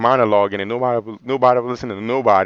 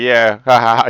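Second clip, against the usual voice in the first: louder mock ha-ha laugh; imitated laughing; 6 dB louder than usual. Retelling Miss King laughing about the debate, imitated laughing. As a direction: laugh it out as the amused friend. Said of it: "He was laughing about that".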